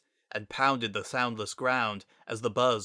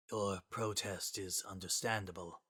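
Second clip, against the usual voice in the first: soft, solemn translator voice; quietly; 9 dB quieter than usual. Acted. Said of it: "Sans said quietly".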